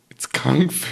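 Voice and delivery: whispered aside. Acted. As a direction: whisper it under the breath.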